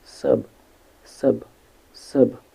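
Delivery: "sub" repeated alone with gaps between; "sub", a separate short syllable with a schwa; isolated syllable demo. Shown as a demonstration. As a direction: sound out "sub" for learners, one at a time. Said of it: "The first one is sub".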